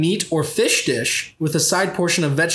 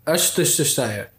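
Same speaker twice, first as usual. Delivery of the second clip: mock German; 3 semitones lower than usual.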